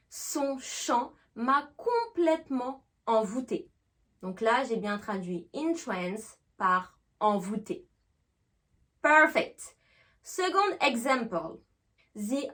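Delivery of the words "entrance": entrance begun with "in"; "in" first syllable. Shown as a demonstration. Teacher explaining the verb's translation, "in" in entrance. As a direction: start entrance on a clear "in". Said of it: "on va faire le son in".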